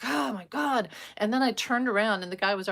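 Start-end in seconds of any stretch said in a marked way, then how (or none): 0.0-0.9 higher-pitched exasperated outburst; retold rage. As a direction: re-enact being suddenly enraged. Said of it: "I just became enraged".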